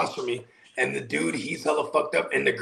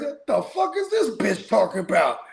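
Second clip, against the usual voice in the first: put-on high, pinched outraged girlfriend voice; imitating an outraged girlfriend; 8 semitones higher than usual. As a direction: mimic a drunk girlfriend's outrage. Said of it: "She goes".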